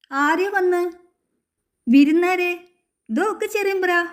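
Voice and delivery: put-on high, eager voice of a boy sharing news; excited chatter. A narrator's reading. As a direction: blurt it out all eager and high. Appu and Chakkan talk excitedly. (ആവേശത്തോടെ ഉയർന്ന ശബ്ദം)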